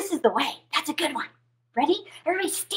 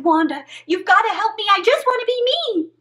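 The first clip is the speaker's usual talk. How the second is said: fast, high plea; pleading frog; 6 semitones higher than usual. Acted. Frog pleads with Wanda to be himself. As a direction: beg urgently, rising.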